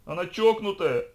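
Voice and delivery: high, loud panicked squeal; squealed outburst. A narrator's reading. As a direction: shriek it in disbelief, pitch way up. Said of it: "взвизгнул мажор".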